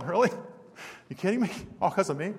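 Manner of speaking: softly incredulous questions; mild disbelief. Retold or imitated. The speaker answering his friend's surprising praise, mild disbelief. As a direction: ask it quietly, taken aback. Retelling own stunned reply.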